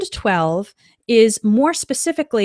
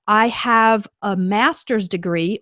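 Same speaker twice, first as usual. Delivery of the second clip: slow example; slower than usual. Shown as a demonstration. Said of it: "Then you would say".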